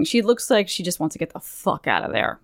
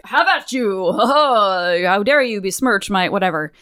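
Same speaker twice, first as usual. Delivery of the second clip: mock challenge to fisticuffs. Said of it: "demands fisticuffs".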